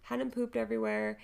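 high, loud frantic rush; panicked husband. Retold or imitated. Husband calling with screaming baby, panicked. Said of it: "He's like".

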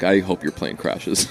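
low, deadpan quoted wish; dead serious. Retold or imitated. Podcast host wishing a guest ill before his flight, deadpan serious. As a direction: deliver it understated, in all seriousness. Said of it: "in all seriousness".

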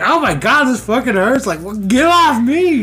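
mock pained yelp. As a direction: squeal it out like you're being crushed.

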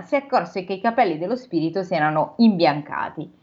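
measured storybook reading voice; steady read-aloud narration; story narration. A narrator's reading. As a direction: read it like a classic novel aloud. Reads the novel aloud.

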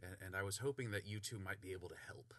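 whispered, soft request; hushed plea. Acted. Volo quietly asking the two adventurers for help.

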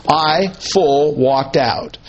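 I and FULL as separate words before "walked out"; emphatic quote. Acted. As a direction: set "I" and "full" apart. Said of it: "the emphasis is on herself".

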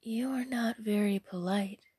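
composed, mild reproof; unruffled fairy; calm, no anger. Acted. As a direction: reprove evenly without anger. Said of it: "displaying no sign of anger".

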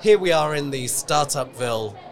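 dramatic announcer voice. Acted. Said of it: "I tried not to do that in an overly dramatic voice".

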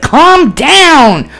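high, loud, falling shout; exasperated mom yelling. Retold or imitated. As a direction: yell it back over the screaming. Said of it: "And she's like".

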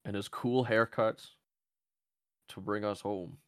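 put-on lightly done British Churchill accent; a barely British wartime speech, understated; Winston Churchill. Joking Churchill speech for the Submariner, faint British accent. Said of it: "That's my Winston Churchill".

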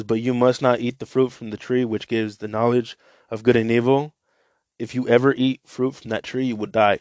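scripture reading to listeners; Bible reading. Acted. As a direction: read the scripture out to the group. Quotes verse seventeen.

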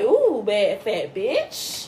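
slow, savoring self-praise; mock sassy boast. Advising listener on mirror talk, slow sassy boast. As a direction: admire yourself slowly in the mirror. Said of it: "be like".

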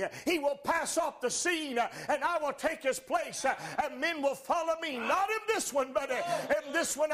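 rising, shouting preacher's climax; preaching at full force. Acted. Preacher drives his point home to the congregation, shouting. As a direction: build it up and proclaim it to the church.

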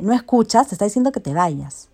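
storyteller playing an angry intervention; acted confrontation. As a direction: order the rival out forcefully. Bartender confronts the ex.

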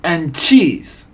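high, loud triumphant addition; witch's shout. A narrator's reading. Head witch topping her mousetrap announcement, shouting. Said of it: "shouted the Grand High Witch".

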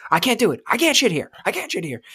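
high, frantic whine of refusal; acted distress. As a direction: pitch jumps up in mock desperation.

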